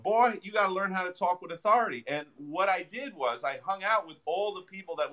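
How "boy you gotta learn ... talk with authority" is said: put-on a light Southern drawl on Boy, as Sid Williams; lightly imitated Southern accent, drawling the words. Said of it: "Sid had that Southern, you know, drawl".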